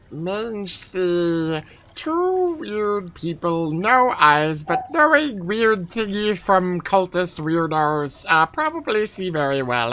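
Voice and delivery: Mange's voice, slow broken speech; lightly voiced goblin, slow and simple; stage whisper. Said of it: "assume for the sake of my voice that I'm whispering".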